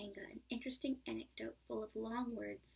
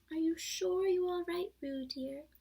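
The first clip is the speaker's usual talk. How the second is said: higher, louder worried call; anxious call; 7 semitones higher, 8 dB louder than usual. A narrator's reading. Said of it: "Kanga was jumping along the bank".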